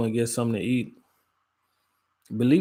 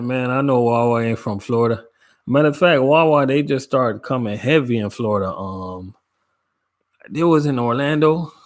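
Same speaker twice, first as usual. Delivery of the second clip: louder, playful mock protest; excited protest; 2 semitones higher, 5 dB louder than usual. Real, not acted. Teased by a viewer about Wawa, loud playful protest. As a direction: call out the teasing viewer, laughing it off.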